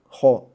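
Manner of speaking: "ho" with an audible h at the start; sounded h. Shown as a demonstration. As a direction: breathe out the h before the vowel in "ho". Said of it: "要把那个呵读出来". (“ho”开头读出“呵”音)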